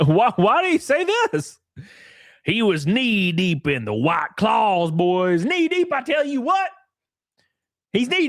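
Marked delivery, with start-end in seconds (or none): 0.1-1.6 high, laughing question; real laugh while asking; laughing disbelief. Real, not acted. 2.4-6.7 mock drunk buddy. Voicing a drunk guy.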